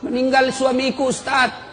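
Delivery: a touch of imitated grief; imitated tearful widow. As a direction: act out a widow's tearful news. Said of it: "ibu-ibu menangis".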